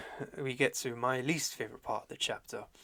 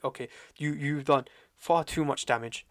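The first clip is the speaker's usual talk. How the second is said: emphatic mock anger, slowing and getting louder; retold anger; 3 semitones higher, 7 dB louder than usual. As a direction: imitate someone who has had enough. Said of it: "he's angry".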